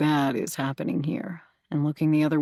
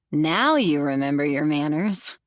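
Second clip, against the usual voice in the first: a sassy jab, a bit louder; 3 dB louder than usual. Acted. Narrator snapping back at Zach's late-night apology, sassy. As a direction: tease him with unplanned sass. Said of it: "with more sass than I'd intended".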